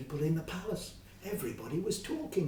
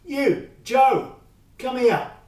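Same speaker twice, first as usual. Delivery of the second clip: demanding shout; 9 semitones higher, 15 dB louder, slower than usual. A narrator's reading. Fred shouting across the street at Joe, demanding. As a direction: call across the street, high and loud. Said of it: "he shouted".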